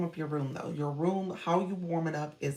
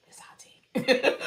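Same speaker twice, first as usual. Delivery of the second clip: higher, louder, slow and sing-song; playful daughter voice; 8 semitones higher, 11 dB louder, much slower than usual. Retold or imitated. Imitating her daughter serving tea, slow and giggly. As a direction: stretch it out like a proud little girl. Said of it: "She said".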